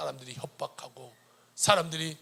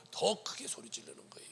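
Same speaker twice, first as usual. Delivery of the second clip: whispered emphasis; 3 semitones higher, 6 dB quieter than usual. Real, not acted. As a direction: drop to a hush.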